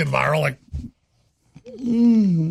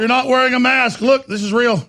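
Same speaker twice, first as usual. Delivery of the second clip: mock panic; 5 semitones higher than usual. Mock panic at unmasked host.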